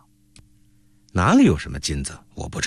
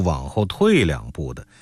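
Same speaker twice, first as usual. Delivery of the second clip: usual speaking voice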